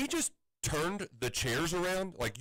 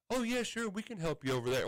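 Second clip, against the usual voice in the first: mock breezy; 5 semitones higher than usual. Mocking staff's breezy refund offer.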